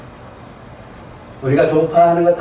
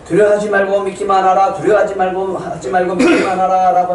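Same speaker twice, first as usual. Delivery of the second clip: crying out; 4 semitones higher than usual. Retold or imitated. Father running home calling out the promise, raised voice. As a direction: shout the promise while running. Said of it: "하면서 외치고".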